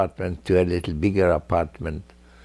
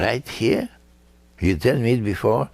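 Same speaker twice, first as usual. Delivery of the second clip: higher, incredulous rising echo; surprised question; 5 semitones higher than usual. Retold or imitated. Judge echoing the couple, surprised and higher. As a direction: echo it back in disbelief. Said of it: "I said".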